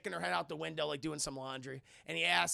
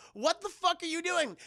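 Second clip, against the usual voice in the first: high, louder indignant question; mock outraged demand; 9 semitones higher, 5 dB louder than usual. Woman confronting the man who took the car, high outrage. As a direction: demand it in a raised voice. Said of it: "She's like".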